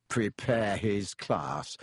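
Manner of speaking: slow, low, scornful repeat; sneering. Acted. Ron mocking Lockhart behind his back, slow sneer. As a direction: drag the words out with contempt. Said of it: "Ron sneered after him".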